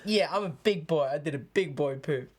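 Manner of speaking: put-on laughing big boy boast; a hint of a proud little kid; mock childish pride.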